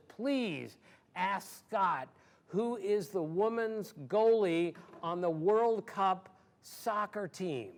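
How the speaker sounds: slow, drawn-out pleading fan; eager fan. Retold or imitated. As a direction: stretch every word like a fan begging a favour. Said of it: "gets me in a headlock and says".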